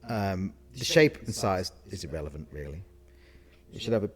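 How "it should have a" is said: speaking through hiccups; interrupted by a hiccup. Real, not acted. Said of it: "oh, I've got the hiccups".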